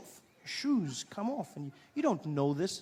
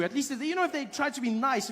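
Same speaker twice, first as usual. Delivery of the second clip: normal talking voice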